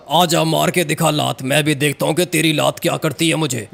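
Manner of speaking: lightly voiced ghost, challenging; menacing ghost. Ghost challenging a man who claims no fear, menacing. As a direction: demand an answer as an offended ghost. Ghost figure dares the player.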